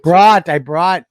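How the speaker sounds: Brought said slow and loud as the right word; dad firmly correcting his son's bring to brought. Shown as a demonstration. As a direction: stress Brought to fix the kid's bring. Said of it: "bring me into".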